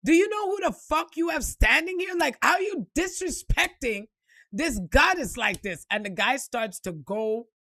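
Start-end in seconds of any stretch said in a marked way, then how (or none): 0.0-5.8 rising mock outrage at the guard; indignant outburst. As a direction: tell security off for her. Man scolds security, louder.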